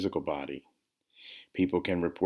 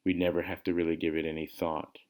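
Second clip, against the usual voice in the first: calm, measured meditation guide; guided meditation. Real, not acted. Meditation teacher leading listeners into awareness of breath, calm guidance. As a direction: guide listeners gently through the practice, phrase by phrase.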